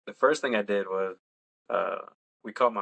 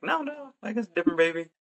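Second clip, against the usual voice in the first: amused correction; 12 semitones higher, faster than usual. Retold or imitated. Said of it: "I'm like".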